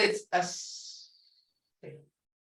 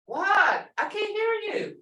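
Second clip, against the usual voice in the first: higher, playful can't-hear-you; mock deaf teacher; 10 semitones higher than usual. Shown as a demonstration. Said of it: "teacher coaxing class response".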